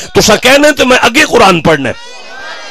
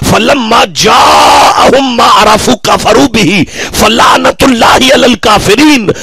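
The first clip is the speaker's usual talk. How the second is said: Quranic recitation. Acted. Preacher reciting the verse to the congregation, chanted. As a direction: intone the verse as in the mosque.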